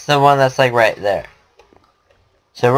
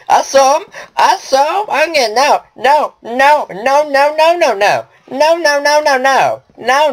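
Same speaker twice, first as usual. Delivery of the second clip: panicked screaming; 9 semitones higher than usual. Real, not acted. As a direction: scream no over and over in terror. Fleeing enemies, screaming no.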